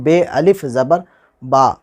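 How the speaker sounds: बे अलिफ ज़बर said slowly with बे as "bay"; spelling with be. Shown as a demonstration. Teacher spelling बे अलिफ ज़बर slowly for students. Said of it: "आवाज़ भी मारूफ की तरफ".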